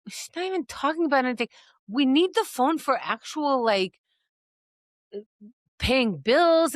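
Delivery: a hint of a nagging parent, quick; exasperated parent. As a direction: rattle it off like a fed-up parent. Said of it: "I'd be like".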